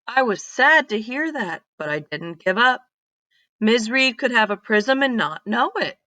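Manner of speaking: put-on lively read-aloud voice for kids; storybook reading. Teacher reading a story to her class, lively read-aloud. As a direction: tell it like a picture book to a class.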